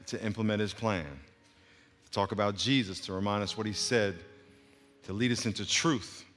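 measured, reverent prayer with long pauses; steady, subdued thanksgiving prayer; leading prayer. Real, not acted. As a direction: address the Holy Spirit calmly, phrase by phrase. Leads congregation in prayer.

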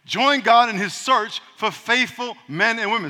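measured scripture reading; slow reading. Shown as a demonstration. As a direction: read it out slowly and deliberately. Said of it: "it says".

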